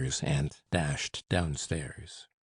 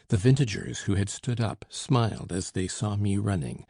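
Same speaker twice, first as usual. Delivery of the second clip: ordinary delivery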